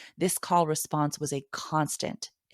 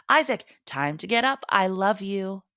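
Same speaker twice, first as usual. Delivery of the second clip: mock morning shout; 4 semitones higher than usual. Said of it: "walk into his room and shout".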